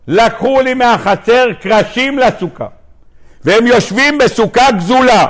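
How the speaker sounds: mock outcry, pitched high; complaining shouty woman. Woman complains to Rav Nachman about stolen planks, mock outcry. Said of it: "הגברת הזאת צעקנית".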